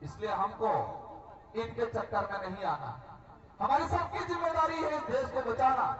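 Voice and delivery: forceful public oratory in punched phrases; political rally speech. Real, not acted. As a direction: address the crowd with declamatory force, pausing after phrases. (चुनावी सभा का जोशीला भाषण)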